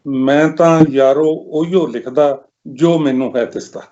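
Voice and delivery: measured, lilting verse delivery; poem recitation. Acted. Poet sharing own verse with listeners, poem recitation. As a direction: recite it line by line with pauses.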